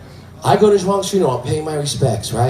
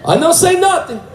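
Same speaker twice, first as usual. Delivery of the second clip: hushing, then very high squeaky promise; squeaky secret-keeper voice; teasing janitor. Retold or imitated. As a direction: imitate João as mock-conspirator. Imitates João's secretive tease.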